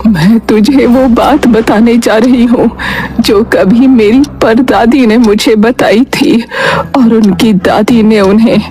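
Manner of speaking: put-on old grandmother, weak but urgent; lightly voiced dying grandmother. Grandmother shares family secret.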